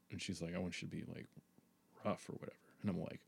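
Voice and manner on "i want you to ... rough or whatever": soft retold request.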